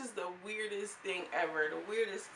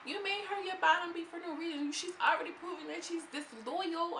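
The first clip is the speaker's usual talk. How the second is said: mock emotional whine; 10 semitones higher than usual. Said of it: "Barbie starts getting emotional".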